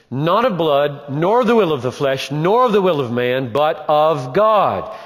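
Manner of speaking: scripture read with weight. Shown as a demonstration. Reading the verse emphatically.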